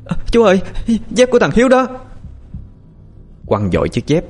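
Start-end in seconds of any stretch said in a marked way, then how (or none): 0.0-1.9 shouting. A narrator's reading. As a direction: cry out to him the moment she sees it. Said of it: "Hiền ngoái nhìn rồi hét lên".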